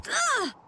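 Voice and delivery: short, high-pitched "ugh"; startled groan. Acted. Boy caught pretending to sleep, high groan. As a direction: let out a quick high grunt of dismay.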